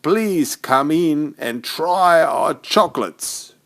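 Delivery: high, jolly welcoming voice with a chuckle; jolly greeter. Acted. Greeter welcoming the children into the factory, high and jolly. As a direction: beam the welcome in a high merry voice.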